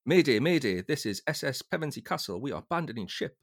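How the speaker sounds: loud, high distress call over the radio; a lightly acted shouted Mayday; urgent Mayday call. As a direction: call it out like a sailor radioing for help. Reading a sailor's Mayday call.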